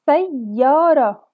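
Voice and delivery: very slow, drawn-out syllables; teacher sounding out each sound. Shown as a demonstration. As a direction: stretch the word out for children. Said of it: "سمعنا صوت حرف الياء في وسط الكلمة".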